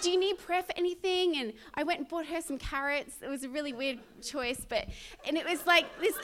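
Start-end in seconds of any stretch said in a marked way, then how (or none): 0.0-1.4 high, loud, excited question; eager offer. Retold or imitated. Offering prayer to homeless person, eager excitement. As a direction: blurt it out, bubbling with eagerness.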